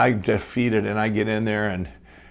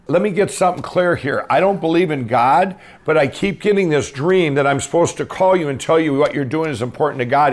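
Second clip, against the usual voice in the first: mad caller; 4 semitones higher, 3 dB louder than usual. Retold or imitated. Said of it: "And he was mad".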